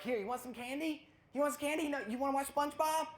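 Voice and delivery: high, sweet coaxing parent voice. Retold or imitated. Parent bribing a toddler in church, high coaxing. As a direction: bribe the screaming toddler sweetly.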